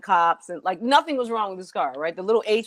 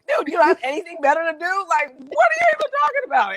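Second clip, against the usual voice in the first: high comic impression of an overeager official; Fire Marshal Bill; 10 semitones higher than usual. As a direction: mimic a cartoonish busybody. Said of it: "He was like Fire Marshal Bill".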